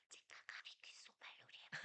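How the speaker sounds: put-on breathy hushed whisper to a hyped child, a bit quick. Shown as a demonstration. Teacher calming an excited child, demonstrating a soft whisper. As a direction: whisper it as if sharing a secret game. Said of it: "조용한 소리로".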